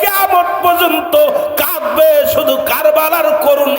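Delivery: impassioned preaching. Acted. Preacher stirring devotees to weep for Hussain, high impassioned cry. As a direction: preach fervently, stretching the last word of each phrase.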